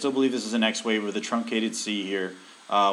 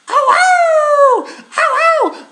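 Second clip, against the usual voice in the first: hissing in pain; 12 dB louder, much slower than usual. Real, not acted. Pet biting, yelping in pain.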